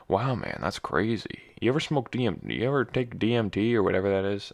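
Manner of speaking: loose, lightly hammed podcaster impression; swooping pitch, like an amazed podcast host; Joe Rogan. Podcast host asks guest about DMT, lightly imitated. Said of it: "That's my Joe Rogan impression".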